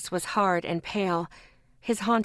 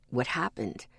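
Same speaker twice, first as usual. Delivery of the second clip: concerned man; 8 semitones lower, 5 dB quieter than usual. A narrator's reading. Ethan asks, concerned.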